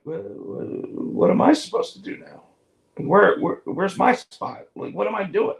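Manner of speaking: high, stammering panic; flustered, lost his place; imitating Kenny flustered and lost; mock panicked Kenny. Kenny retold, panicked confusion.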